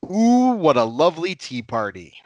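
lightly prissy, sing-song line; a touch of a fussy guest; lightly hammed-up prim voice; mock dainty tea-party voice. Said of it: "how it was used in Jay and Silent Bob".

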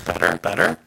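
echoey distorted mic. Real, not acted. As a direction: voice with reverb echo. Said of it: "now you have an echo".

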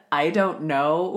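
imitating a French-accented mumble; mock French accent, drawn out. Teasing the co-host about her French, mock French accent. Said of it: "with a French accent".

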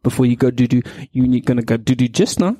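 lightly imitated baby talk, each question lifting; mock parent cooing nonsense words to a toddler. Parent checks on the child's things, mild baby talk. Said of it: "baby language that you think they will understand".

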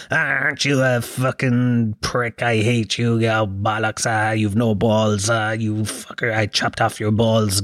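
playful rough-housing pet talk; slow, affectionate mock abuse to a dog; friendly tone. Shown as a demonstration. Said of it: "say it in a friendly tone of voice".

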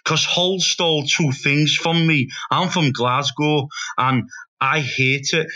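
slow, badly faked Scottish accent; deliberate Scottish grievance, imitated; attempted Scottish accent. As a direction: drag it out in a shaky attempt at Scottish. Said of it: "there was a Scottish fella".

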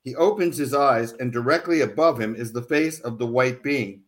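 steady reading voice, quotes lightly acted; story narration. A narrator's reading. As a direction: read it like an audiobook chapter. Author reads book excerpt aloud.

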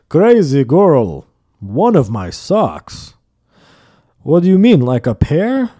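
slow, laughing disbelief; mocking laugh. Neighbor laughing at grandma's sock wager, slow and scoffing. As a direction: scoff at her bet. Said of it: "he started laughing".

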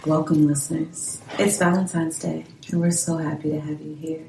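a sultry radio host voice, softly; sexy voice. Pretend. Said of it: "put on my sexy voice".

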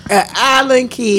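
a baffled echo of her odd words; puzzled echo. Real, not acted.

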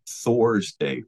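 "Thor's Day" as two separate words; "Thor's Day", spelled out by ear as Thor plus day; word-origin pronunciation. Shown as a demonstration. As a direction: say "Thor's Day" with the god's name sounded in full. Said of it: "where you get the word".

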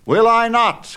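high, loud exultant cry; cried out. A narrator's reading. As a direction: fling it back triumphantly. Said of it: "cried Perseus".

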